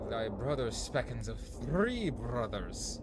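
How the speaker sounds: hammed-up mock Shakespearean tree talk; archaic fairy-tale voices. Voicing the woodcutter and tree in archaic speech. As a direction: play both woodcutter and trees in old speech. Voicing trees in a dream quest.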